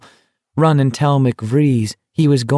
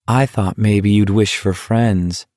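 slow, mildly sad; understated sadness. Acted. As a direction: say it slowly with a touch of sadness. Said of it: "Garrity said sadly".

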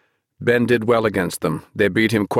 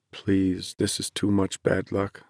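miserable; 7 dB quieter, slower than usual. Acted. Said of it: "Andrew thought miserably".

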